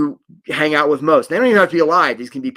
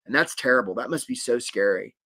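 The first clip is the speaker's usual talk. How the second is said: calm reassuring; 4 semitones lower than usual. Shown as a demonstration. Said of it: "The energy we wanna come with is".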